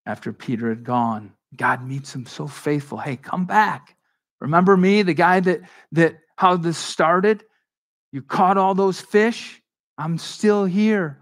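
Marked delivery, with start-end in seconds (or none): 3.0-11.2 higher, louder, slow pleading call; calling back. Retold or imitated. God calling the discouraged Peter back, slow pleading call. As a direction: call him home, drawn out.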